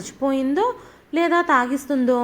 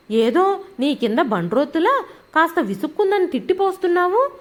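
angry tirade. Acted. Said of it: "గయ్యమని లేచింది".

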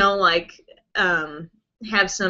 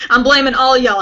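laughing; 3 semitones higher, 6 dB louder than usual. Real, not acted. Laughing while teasing viewers.

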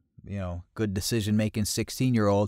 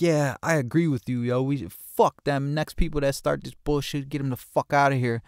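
higher-pitched imitation of a worked-up guy; riled-up retold agreement; 6 semitones higher, 3 dB louder than usual. Teller voices a partygoer agreeing with him, riled up. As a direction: imitate a dude egging you on.

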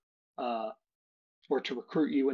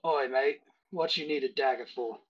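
gruff Cockney barkeep. Acted. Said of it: "he leans across and says".

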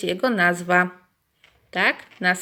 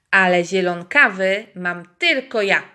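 a proud exclamation, louder; exclaiming rooster; 7 dB louder than usual. Acted. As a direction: crow it out like a boastful rooster. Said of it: "wykrzyknął kogut".

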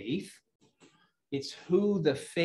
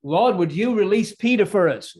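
louder, lightly acted plea in prayer; praying believers; 4 semitones higher, 7 dB louder than usual. Saints praying for Peter's release, lightly acted pleading. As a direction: plead with God, a little higher. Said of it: "do you think they were praying".

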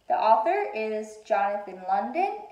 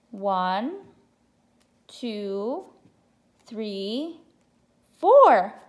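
excited counting; 4 dB louder, much slower than usual. Shown as a demonstration. Counting aloud with children.

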